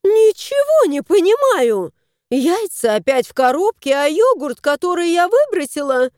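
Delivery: woman yelling from the kitchen; bewildered cry. A narrator's reading. Женщина кричит из кухни, начинает очень высоко. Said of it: "донёсся вопль".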